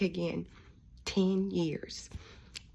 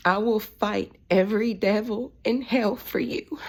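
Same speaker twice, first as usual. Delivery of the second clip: louder, emphatic pledge; fierce vow; 3 semitones higher, 5 dB louder than usual. Retold or imitated. Daughter vowing to her broken-down dad on speakerphone, fierce and loud. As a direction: declare it with force, leaning on each key word.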